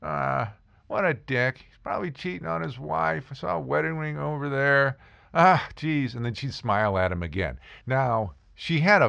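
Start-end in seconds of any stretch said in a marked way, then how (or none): 0.0-6.1 side-of-mouth snark. Retold or imitated. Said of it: "out of the side of her mouth say".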